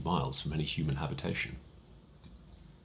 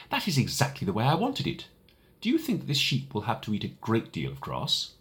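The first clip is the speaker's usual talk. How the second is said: put-on delighted little boy; lightly voiced little prince; 2 semitones higher than usual.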